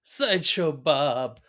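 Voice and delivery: lightly done fake Italian. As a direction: toss in mock Italian words. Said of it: "they're all fake words".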